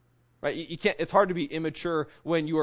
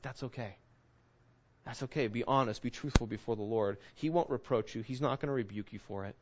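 much softer, lower and tender; gentle reassurance; 4 semitones lower, 5 dB quieter than usual. Retold or imitated. The Lord's answer to an overwhelmed believer, softly reassuring. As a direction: soothe someone who's overwhelmed.

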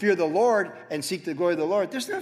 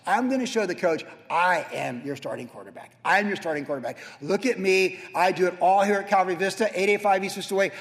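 cocky boast. Retold or imitated. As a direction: brag like the star player to the coach. Boasting to God as quarterback.

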